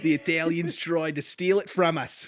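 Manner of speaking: indignant mock Aussie; hammed-up Australian grievance; Australian accent. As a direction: complain in a broad put-on Australian accent. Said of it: "we just do accents of other people".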